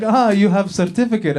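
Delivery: struggling immigration agent. Acted. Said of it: "struggling to find the word certificate".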